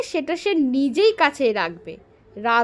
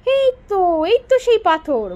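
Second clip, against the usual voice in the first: king cries out with joy at the stone, louder; a glad, raised shout of recognition; excited cry; 5 semitones higher, 4 dB louder than usual. Acted. King seeing the lost stone, crying out in joy. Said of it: "বলে চেঁচিয়ে উঠলেন তিনি".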